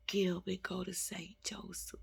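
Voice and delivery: soft whisper of a divine message; hushed voice of God. Retold or imitated. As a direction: breathe it like a secret from heaven. Recounting divine voice.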